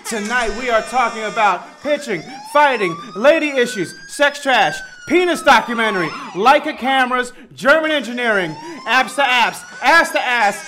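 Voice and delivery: fuzz distortion on the mic; blown-out, crackling hype intro; distorted audio. Real, not acted. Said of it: "I would like to apologize for the distorted audio".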